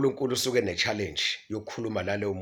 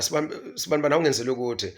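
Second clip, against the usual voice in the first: raised, higher-pitched call, then quicker; 4 semitones higher, 3 dB louder, faster than usual. Acted. Speaker acts calling a child who pays no attention, calling out. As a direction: call insistently to a child ignoring you.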